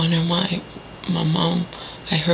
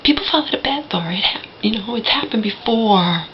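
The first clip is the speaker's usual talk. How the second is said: mother's nonchalant voice; 3 semitones higher than usual. Retold or imitated. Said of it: "talking in that voice I know only so well".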